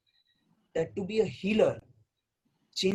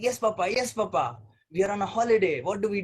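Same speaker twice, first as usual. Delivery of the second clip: put-on eager child; 2 semitones higher, 5 dB louder, faster than usual. Young child eagerly answering father.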